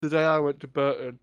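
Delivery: talking through a mouthful of food; mouth full. Real, not acted. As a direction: speak round a bite. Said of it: "Don't talk your mouth full".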